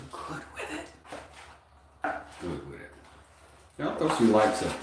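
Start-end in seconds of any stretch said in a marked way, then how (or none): 0.1-0.9 very high, airy little voice; mock squeaky taunt. Teasing an online hater, very high mock squeak. 2.4-2.9 low repeat. Pretend. Repeating the taunt to the hater, low deadpan.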